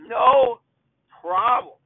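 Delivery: loud emphatic "No problem"; emphatic loud repeat. Shown as a demonstration. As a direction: bark the No then let problem fall. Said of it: "repeat of no problem".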